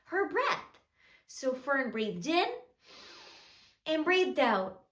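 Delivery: soft, measured storybook narration; children's storytelling. A narrator's reading. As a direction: tell a gentle story to small children.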